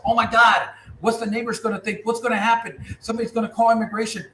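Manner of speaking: high, loud worried mother voice; panicked parent. Retold or imitated. Parent frets over kids protesting, panicked and high. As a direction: fret like a scared immigrant parent.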